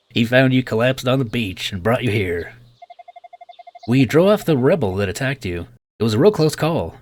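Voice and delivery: lightly voiced genial Southern doctor; Southern clinic owner. Clinic owner greets his waking patient, light Southern accent. Voices Bluto in game dialogue.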